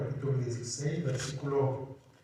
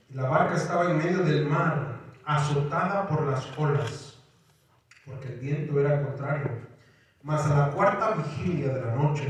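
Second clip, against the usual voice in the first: reading the passage aloud with a lift; preacher reads the storm passage to the church, lifted reading voice; scripture reading. Acted.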